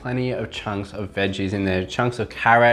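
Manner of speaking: chewing while talking; speaking between bites of pie; mouth full. Real, not acted. Seen 1: Bites pie at -1.0; mouth likely still has food while talking.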